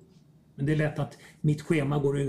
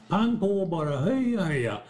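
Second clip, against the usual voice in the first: heated outburst; 6 semitones higher than usual. Retold or imitated. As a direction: fire it off all at once. Mocking the heated everyday reaction.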